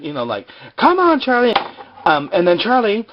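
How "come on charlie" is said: much higher, louder, hammed-up pleading; mock desperate plea. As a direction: beg him to wake up, overplayed. Jack pounding Charlie's chest.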